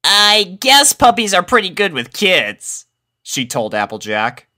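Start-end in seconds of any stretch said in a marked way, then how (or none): 0.0-2.9 Rainbow Dash voice. A narrator's reading.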